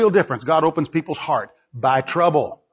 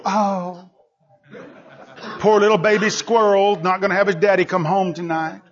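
mock pity; 3 semitones higher than usual. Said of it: "they don't go".

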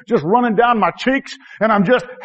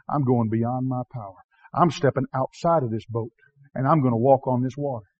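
quiet resolve; 6 semitones lower, 6 dB quieter than usual. Retold or imitated. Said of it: "when somebody says".

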